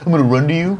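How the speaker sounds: mock-romantic spoken quote; quoted movie line. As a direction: say it high, lifting at the end. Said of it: "Where they're like".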